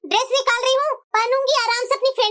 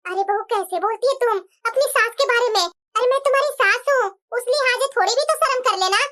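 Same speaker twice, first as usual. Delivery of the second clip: a hint of a lower, scolding mother-in-law voice; lightly voiced mother-in-law; 3 semitones lower than usual. Mother-in-law rebukes daughter-in-law.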